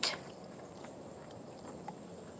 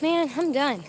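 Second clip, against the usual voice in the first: puffing, winded; out of breath; 5 dB quieter, slower than usual. Real, not acted. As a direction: talk while catching your breath. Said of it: "I'm so out of breath".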